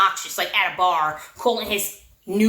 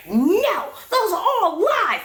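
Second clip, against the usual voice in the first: mock frantic denial; 8 semitones higher, much slower than usual. David cries out in denial to his friend, high and drawn out.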